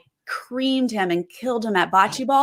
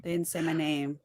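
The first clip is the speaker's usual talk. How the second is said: mock pouty whine; 3 semitones lower, 8 dB quieter than usual. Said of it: "He's pouty, pouty".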